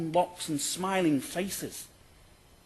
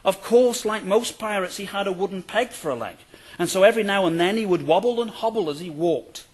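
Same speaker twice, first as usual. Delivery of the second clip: a light storybook read, louder at the start; reading a children's storybook; 3 semitones higher, 6 dB louder than usual. Acted. Lecturer reading the pirate storybook aloud, story voice. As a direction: read it like a picture book for kids. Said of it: "He was described in the text like this".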